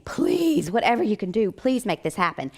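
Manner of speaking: retold pleading; mock begging. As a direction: plead for it, starting high. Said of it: "like, begging".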